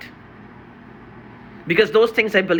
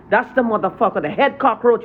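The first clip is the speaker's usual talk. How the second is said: angry; 3 semitones higher than usual. Real, not acted. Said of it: "Sorry I'm so angry".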